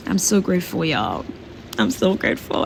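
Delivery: fighting back emotion as you thank them; holding back tears. Real, not acted. Vlogger thanking her supporters, voice lowering with held-back tears. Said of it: "I wanna get emotional right now".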